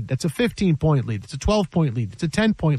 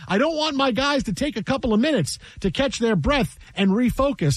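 higher-pitched, insistent mock protest; mock coach's reasoning; 3 semitones higher than usual. Host mocking the losing coach's refusal of timeouts, higher mock protest. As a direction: play up a coach's absurd reasoning.

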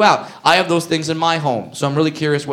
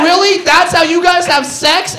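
amazed disbelief; 13 semitones higher, 3 dB louder than usual. Retold or imitated. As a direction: ask it in total disbelief. Comic asking, amazed.

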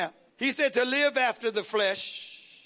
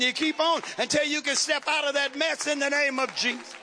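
full-force preaching; 3 semitones higher than usual. Real, not acted.

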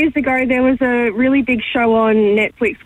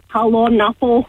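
put-on Scottish accent. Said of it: "I do it in the Scottish accent too".

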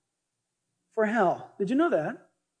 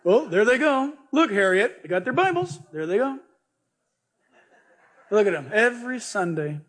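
nosy neighbor sneering at churchgoers; mocking neighbor. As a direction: gossip to Harriet about the Bible folks.

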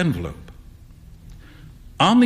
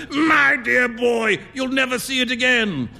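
amused Trevor; 8 semitones higher than usual. A narrator's reading. Trevor laughing, mock French.

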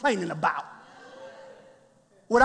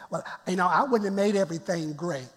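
a hint of a fussy church member, softer; mock complaining member; 5 semitones lower, 3 dB quieter, faster than usual. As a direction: lightly mimic a picky critic. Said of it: "just don't say".

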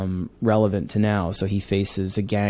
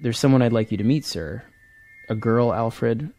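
earnest read-aloud of a Batman scene, lightly voicing both men; dramatic comic reading. Author reading his Bruce and Alfred scene aloud, earnest. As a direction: tell the scene gravely, letting the lines land.

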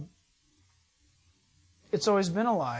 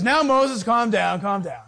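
calming God; 5 dB louder than usual. Retold or imitated. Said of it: "God says".

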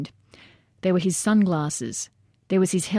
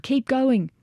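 urgent urging; 7 semitones higher than usual. A narrator's reading. Soldiers hauling the body.

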